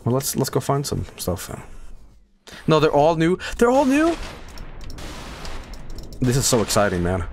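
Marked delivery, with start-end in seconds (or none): 3.6-4.1 high, rising disbelief; surprised question. Real, not acted. Gamer realizes fragments are all new, surprised. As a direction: lift "new" sharply into a question.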